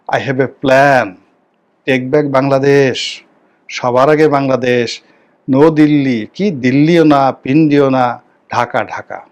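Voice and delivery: slow, drawn-out slogan recital; quoted political slogans. Retold or imitated. Commentator reciting a politician's trolled slogans, slow slogan delivery. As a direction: imitate slogans, each phrase slow and firm.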